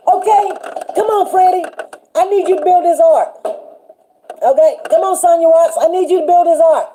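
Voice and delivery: the Lord calling each viewer to build the ark; the Lord calling by name. Retold or imitated. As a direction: summon them by name like a cheerful boss.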